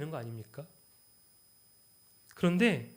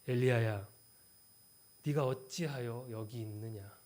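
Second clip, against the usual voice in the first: lightly voiced God asking gently; gentle voice of God; 3 semitones lower than usual. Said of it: "하나님 처음 뭐라고 말씀하셨습니까".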